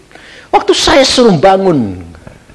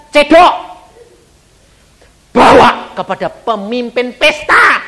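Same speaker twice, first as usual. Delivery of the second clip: incredulous retelling; 8 semitones higher, 4 dB louder than usual. Acted. Voicing Jesus's command.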